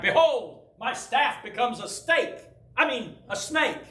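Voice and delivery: Moses fumbling before Pharaoh. Pretend. Anxious Moses addresses Pharaoh, mock-grand and flubbing. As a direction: declaim grandly, then hastily fix the slip. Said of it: "he's afraid he's gonna get in front of Pharaoh".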